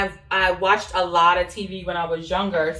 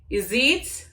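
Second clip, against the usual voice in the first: "You see it" run together in Jamaican Patois; 2 semitones higher than usual. Shown as a demonstration. Vlogger explaining a patois phrase, "You see it" in patois accent. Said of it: "Like, do you see that?".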